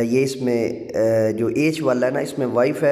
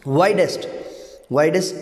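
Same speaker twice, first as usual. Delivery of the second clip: "वाइडेस्ट" stressed on वाइड; faster than usual. Shown as a demonstration. Teacher drilling word stress, वाइड stressed in "वाइडेस्ट". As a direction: lean on the first syllable of "वाइडेस्ट". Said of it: "वाइड पे आपका जो stress आ रहा है".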